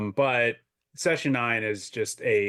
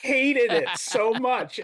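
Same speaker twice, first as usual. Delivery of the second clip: high, slow laughing emphasis on hated; laughing disbelief; 12 semitones higher, 3 dB louder, much slower than usual. Real, not acted. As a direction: laugh through the word hated. Recalling the group hating it.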